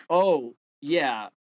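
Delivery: mock agreement, pitch jumping up on sure; sarcastic. Replying to an angry fan of a rapper in DMs, sarcastic. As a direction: play along with a dripping sarcastic sure.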